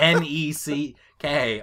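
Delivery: letters N E C K spelled slowly with a laugh; spelling out N E C K. Retold or imitated. Retelling the cashier's typo, spelling slowly and laughing. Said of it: "She wrote neck".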